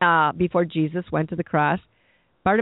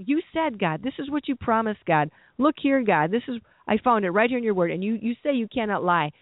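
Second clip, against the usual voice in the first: slightly higher-pitched appeal to God; insistent prayer; 3 semitones higher than usual. Acted. Believer quoting God's word back to him, insistent. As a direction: hold God to the promise, pitched up.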